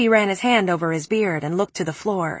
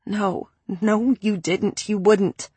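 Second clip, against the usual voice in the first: stammering; slower than usual. Acted. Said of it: "I stammered".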